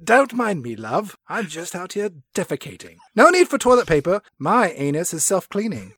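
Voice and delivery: lightly voiced prim old lady; posh old lady. To the listener, a hint of grand old lady. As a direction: airily dismiss it, a hint of a grand dame. Voicing Judi Dench defecating.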